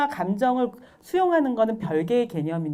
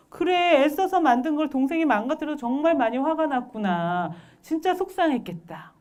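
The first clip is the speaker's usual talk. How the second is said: higher-pitched sympathetic parent voice; acted empathy; 6 semitones higher than usual. Parent to child with broken blocks, empathizing. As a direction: validate the child's hurt.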